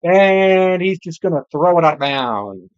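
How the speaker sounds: excited football call with stretched-out words; live play-by-play. Real, not acted. Commentator calling Rodgers throwing under pressure, live play-by-play.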